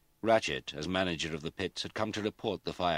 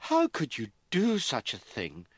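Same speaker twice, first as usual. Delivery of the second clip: high, loud, slow wail of dismay; a mother's anguished cry at her daughter; 9 semitones higher, 6 dB louder than usual. A narrator's reading. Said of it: "Lady Hallam wailed".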